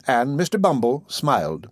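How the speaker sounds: ordinary delivery, nothing marked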